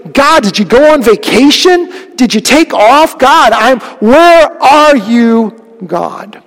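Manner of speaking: slow and stretched on where are you; pleading complaint. Acted. Voicing a doubting believer.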